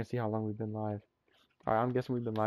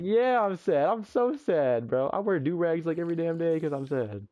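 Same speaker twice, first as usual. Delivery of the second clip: mock-sad principal; 5 semitones higher, 3 dB louder than usual. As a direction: ham up the sad bald principal. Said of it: "he was like".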